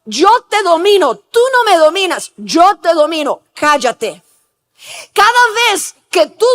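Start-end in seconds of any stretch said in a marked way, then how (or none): 0.0-4.2 mock command to one's own conscience; domineering. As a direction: overrule the inner voice, emphatic and punchy. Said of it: "Está dominando su conciencia y le está diciendo". (orden dominante, imitada)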